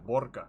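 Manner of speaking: Burger said as "BOR-ger"; botched Russian burger. Shown as a demonstration. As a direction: struggle through Burger with an O-R sound, "bor". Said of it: "can't quite get around the O and the R".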